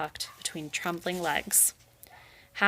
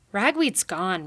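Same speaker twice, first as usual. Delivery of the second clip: snapped; 4 dB louder, slower than usual. Acted. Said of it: "Rai snapped".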